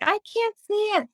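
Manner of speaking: very high, quick mock wail; retold despair. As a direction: squeeze the quote out high and fast, without extra volume. Repeats her despairing reply to husband.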